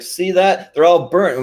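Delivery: high, loud dismayed nerd voice; Ed Grimley dismay. Retold or imitated. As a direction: show off the ruined cakes in dismay. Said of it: "he's like".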